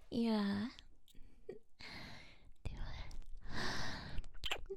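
soft breathy whisper close to the ear; intimate whisper. Acted.

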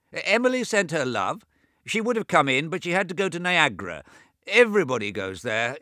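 put-on high, loud old man talking over his own deafness; deaf old James. A narrator's reading. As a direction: raise the voice as if he can't hear himself. James gossips about Homburg.

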